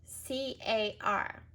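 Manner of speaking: C A R spelled letter by letter slowly; careful letter-by-letter spelling. Shown as a demonstration. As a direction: spell out each letter of car.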